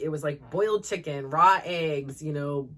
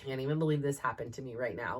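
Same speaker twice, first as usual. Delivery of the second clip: imitating upset daughter; 5 semitones lower, 5 dB quieter, faster than usual. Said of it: "And she's pissed".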